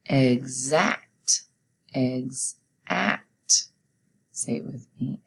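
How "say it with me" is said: soft whispered lead-in; whispered prompt. Real, not acted. Teacher prompting kids quietly, whispered. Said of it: "teacher quiet prompt".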